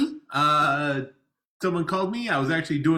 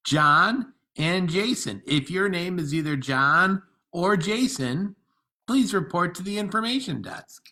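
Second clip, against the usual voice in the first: page them over the speakers; airport announcement; slower than usual. Acted. Paging John and Jason.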